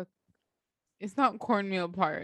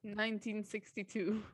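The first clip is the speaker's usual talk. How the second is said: grave ancient myth telling; 6 dB quieter than usual. Pretend. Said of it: "I wanted to sound like a storyteller".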